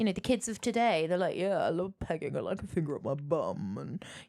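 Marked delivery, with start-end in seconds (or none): 1.4-3.8 put-on low cool dude voice. Imitating how young people talk about kinks, as a cool dude. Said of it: "I was like a cool dude".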